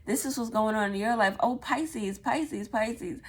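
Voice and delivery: lightly voiced psychic reading; mock psychic reader. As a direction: mimic a gushing psychic calling out a sign. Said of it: "people who are always saying".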